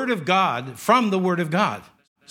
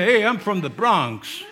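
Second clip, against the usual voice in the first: mock Bronx accent; slower than usual. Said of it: "make up a phony voice".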